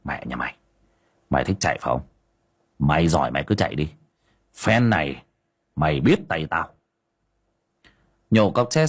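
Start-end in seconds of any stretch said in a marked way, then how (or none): 0.0-6.7 through gritted teeth. Acted. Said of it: "nghiến răng kèn kẹt".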